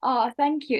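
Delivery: normal talking voice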